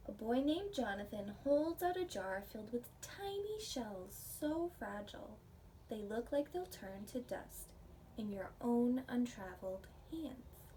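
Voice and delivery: gentle storybook read-aloud for a class; reading to children. Acted. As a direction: read it like a picture book to little ones. Reading picture book to class.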